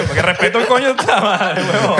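más agudo, riéndose al protestar; indignación entre risas. Real, not acted. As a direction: protesta muerto de risa. Se burla riendo del "con respeto. (burla indignada con risa)

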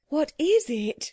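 high, slow regal voice; imperious queen. Acted. The Queen recoils from the shouting crowd, high regal question. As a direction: ask it high and grandly.

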